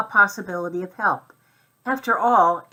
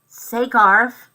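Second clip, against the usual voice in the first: louder call, pitched up on Garf; second call, louder; top of his voice; 4 semitones higher, 7 dB louder than usual. A narrator's reading. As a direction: shout it to be heard. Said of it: "at the top of his mouse voice".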